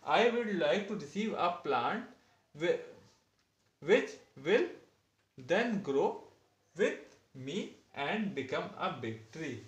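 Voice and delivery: slow dictation of a model answer; teacher reading an example answer slowly; reading aloud. Acted. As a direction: read it slowly for the class to copy.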